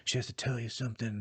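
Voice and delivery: put-on hushed, smoky voice; lightly whispered parody; mock whispering. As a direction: imitate someone who won't project. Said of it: "sounds like she's whispering".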